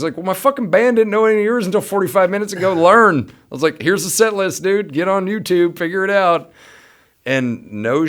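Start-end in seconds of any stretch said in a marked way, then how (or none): 0.2-6.5 high, loud bossy command; mock stern order. Bandleader ordering Luke to learn songs, loud mock stern. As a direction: lay down the law to the kid.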